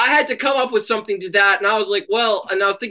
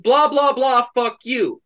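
mock Angel joke; 5 semitones higher, slower than usual. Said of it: "She'll just be like".

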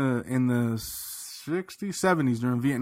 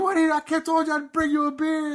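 retold friend; 12 semitones higher than usual. Friend explaining the promised beer.

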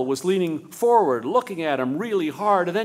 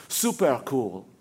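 super cool; 5 semitones lower, slower than usual. A narrator's reading. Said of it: "as cool as the way she had said".

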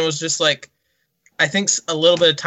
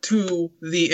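a loosely done Scarface voice, slow and drawn out; Scarface impression; slower than usual. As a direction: do a lightly voiced tough gangster. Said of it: "and I'm talking like this".

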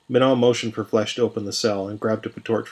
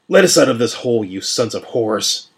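loud angry shout from the cell; 5 dB louder than usual. Acted. Prisoner yelling at his jailers through the bars, loud and angry. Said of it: "Jack shouted".

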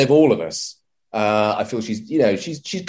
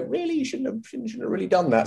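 disapproving; 9 semitones higher, 6 dB quieter, faster than usual. Retold or imitated. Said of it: "certain things you go".

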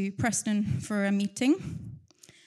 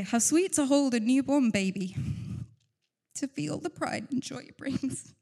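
tearful reading; 3 semitones higher than usual. Real, not acted. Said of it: "I told you I was gonna cry".

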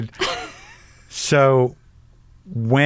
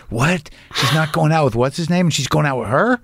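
higher, questioning, lightly acted disbelief; mock shocked gossip; 5 semitones higher than usual. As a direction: imitate scandalised gossip, rising to a peak. Voices the community's shocked gossip.

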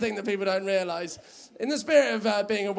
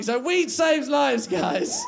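punchline shout; 6 semitones higher, much slower than usual. Real, not acted. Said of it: "punchline closing call".

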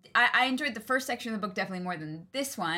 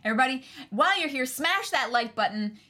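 raised, punchy hype voice; rally the chat at raised volume; shouting to viewers; 4 semitones higher, 4 dB louder than usual. Real, not acted. Host urging viewers to spam the chat, shouting. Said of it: "doesn't mean you have to shout".

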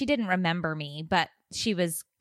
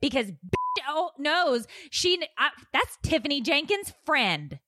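laughing exasperated rant; 5 semitones higher than usual. Retold or imitated. Retold frustrated inner outburst.

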